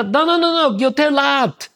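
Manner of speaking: mock music teacher stopping the playing; imitating the teacher. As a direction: correct the pupil, a touch exasperated. Teacher correcting his playing.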